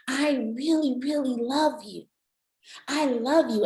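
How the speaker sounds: heartfelt, emphatic acted devotion; loving declaration. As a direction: reassure a partner with full sincerity. Acted loving apology to partner.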